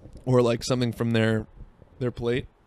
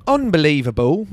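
higher, louder put-on voice of disbelief; put-on outrage; 4 semitones higher, 6 dB louder than usual. Comic sums up the fry story, loud mock outrage. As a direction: raise pitch and volume, hammed-up. Repeats word in two contrasting voices.

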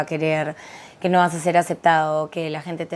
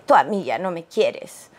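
put-on pouty little girl; 2 semitones lower than usual. Child sulking at mother, retold.

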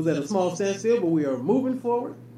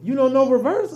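mock Mexican accent; 4 semitones higher, 4 dB louder than usual. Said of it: "my accent is great".

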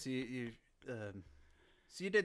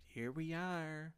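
catchphrase; 5 semitones higher, much slower than usual. Shown as a demonstration. First catchphrase use.

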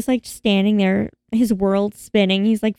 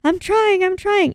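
strained; 9 semitones higher than usual. Retold or imitated. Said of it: "And he's like".

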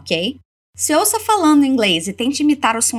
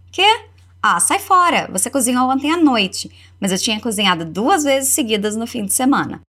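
lightly voiced irritation, easing off; mildly annoyed. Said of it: "se irrita um tiquinho de nada". (tradução com leve irritação)

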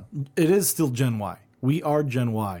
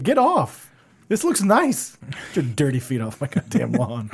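put-on grumpy old man. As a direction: play the cranky neighbor guarding his grass. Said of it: "we're just grumpy old men now".

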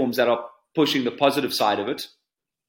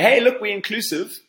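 sarcastic; 7 semitones higher than usual. Retold or imitated. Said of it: "just to say".

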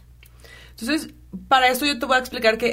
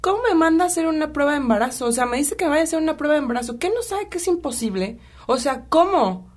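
higher, rising outrage, rushed in the middle; mock fury at the doctor's request; indignant rant; 5 semitones higher than usual. Venting to her husband about the doctor, indignant. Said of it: "y me enojé".

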